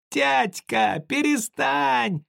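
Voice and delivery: high, slowed crying plea; boy dragging his father away, in tears; tearful cry. Acted. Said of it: "сквозь слёзы кричал Колька".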